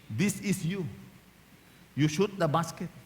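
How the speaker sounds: quiet, intense coach to his shooter; Jaworski. Retold or imitated. Coach Jaworski giving the last shot to his player. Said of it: "what does Jaworski say?".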